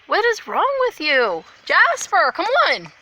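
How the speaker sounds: loud, fed-up call to the dog; exasperated call. Real, not acted. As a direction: call the dog, a bit annoyed. Scolding, calling the dog.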